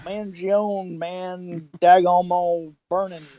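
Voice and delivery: slow, drawn-out Texan mumble; slowed Boomhauer. Retold or imitated. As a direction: still slurred even slowed down. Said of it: "And he's like".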